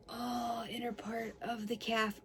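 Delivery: breathy whispered relief as the roller hits the calf; pleasured whisper. Real, not acted. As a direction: whisper it as the tension releases. Feeling the tight calf.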